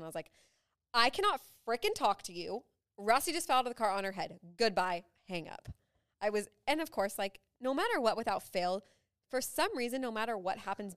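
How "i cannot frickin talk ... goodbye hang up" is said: louder, exasperated retelling of a yell; retold yelling. Stressed mom on phone to husband, mock yelling. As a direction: re-enact snapping at him, half-strength. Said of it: "I literally yelled at Justin".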